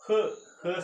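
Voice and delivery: short breathed "ഹ്", no full vowel; letter sound of H. Shown as a demonstration. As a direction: say "ഹ്" as the bare H sound. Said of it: "എച്ചിന്റെ sound". ("ഹ്" എന്ന H ശബ്ദം മാത്രം)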